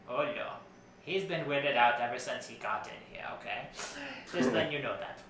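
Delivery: lilting, theatrical designer character voice; fussy costume designer Edison. Acted. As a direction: play a self-important fashion designer, pitch swooping. Plays Edna Mode's cousin Edison.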